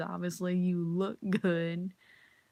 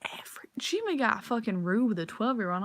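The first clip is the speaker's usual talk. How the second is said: whisper; 3 semitones higher than usual. Real, not acted. Outraged gossip to viewers.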